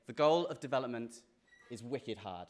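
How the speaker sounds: a light put-on Boston accent, quoting the chair. Quoting the faculty chair to fellow graduates, in a light Boston accent. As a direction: drop the r's Boston style on wicked hard. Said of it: "That was my Boston accent".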